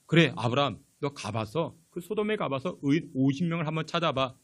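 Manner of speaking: hint of God calmly granting a request; God answering. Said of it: "그러자 하나님 뭐라고 하십니까?".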